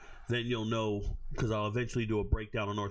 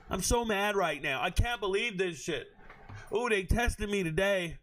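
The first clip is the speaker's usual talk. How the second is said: higher, whiny mock complaint, drawn out; mock dramatic poster; 7 semitones higher than usual. Host mocks a girl's Facebook rant in a higher, hammed-up voice. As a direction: ham up a girl's melodramatic post. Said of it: "They go out there and they just write that".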